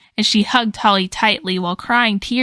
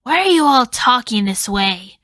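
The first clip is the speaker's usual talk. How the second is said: yelling; 2 semitones higher than usual. Acted. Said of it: "Vanessa suddenly yelled".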